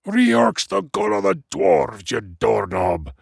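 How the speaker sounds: high, exasperated dwarf roar. A narrator's reading. Dwarf to his clueless friend, exasperated roar. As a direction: roar it, strained and high at first. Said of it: "Flint roared".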